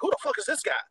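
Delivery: high, laughing imitation of an angry husband; husband fuming over a saved photo, playfully mimicked; mock jealous husband. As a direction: laugh through a fake outraged demand. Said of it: "He was like".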